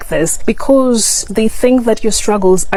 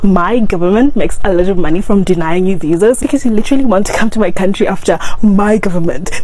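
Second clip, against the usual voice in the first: satirical arrogant American. Acted. Vlogger parodies an American insulting Africans, mock scorn. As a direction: sneer down at the poor African, mildly mocking. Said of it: "let's see the, our response".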